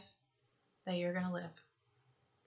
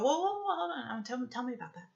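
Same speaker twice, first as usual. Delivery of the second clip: a lot higher, quick whoa-hold-on; surprised interruption; 3 semitones higher, faster than usual. Retold or imitated. Speaker stopping her friend's story to hear more, surprised. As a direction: cut her off, suddenly curious.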